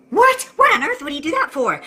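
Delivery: shocked what. Acted. Wife shocked by boss story.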